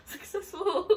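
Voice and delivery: "Successful" stretched slowly through a laugh; mock drawn-out successful. Mocking her own success to viewers, slow laughing "Successful". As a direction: laugh as you draw out "Successful".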